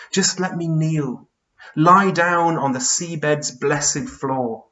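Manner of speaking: lightly voiced weary giant, easing off; a touch of exhausted pleading, measured verse; Charles Byrne, weary. Tired giant asks George to let him kneel, understated weariness.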